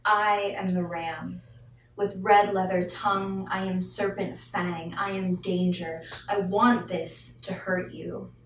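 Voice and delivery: driving, emphatic spoken-word cadence; poetry recitation. Acted. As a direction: recite it as a wrathful poem, punching key words. Reads second poem aloud.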